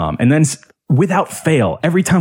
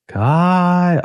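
high, drawn-out name call; imitated needling little sister; sister's nagging call; 3 semitones higher than usual. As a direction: pester with a long, high call. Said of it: "it was always something like this".

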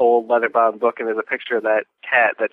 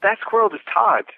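surprised character; 10 semitones higher than usual. Retold or imitated. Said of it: "one of them goes".

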